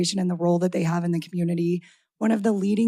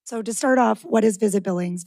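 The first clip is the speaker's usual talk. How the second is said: raspy voice. Real, not acted. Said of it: "I have a little bit of a raspy voice tonight".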